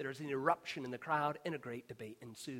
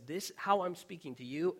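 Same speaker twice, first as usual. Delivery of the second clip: urgent plea; 4 semitones higher, 6 dB louder than usual. Acted. Father's plea voiced.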